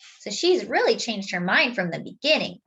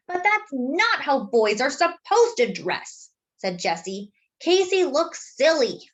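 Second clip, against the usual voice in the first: put-on indignant girl; 5 semitones higher than usual. Jessie objecting to Casey's skirt, higher and indignant. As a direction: whine it with disapproval.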